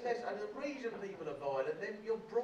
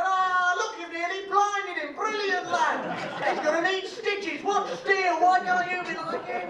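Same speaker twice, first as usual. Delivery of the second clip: much higher and louder, stretched-out praise; ecstatic teacher; 8 semitones higher, 10 dB louder, slower than usual. Retold or imitated. Rugby teacher cheering Steele for flattening a boy, high and loud. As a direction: cheer like a coach gone wild with delight.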